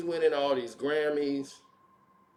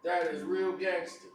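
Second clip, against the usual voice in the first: quieter sarcastic repeat; 4 dB quieter than usual. Real, not acted. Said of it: "a rapper finna battle a woman".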